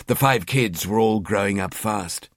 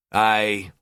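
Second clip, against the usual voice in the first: grumbling. Acted. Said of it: "he grumbled".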